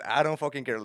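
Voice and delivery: loud, high mock outburst; acted defiant refusal. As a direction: refuse loudly, as if done with the boss. Employee refuses in acted quarrel.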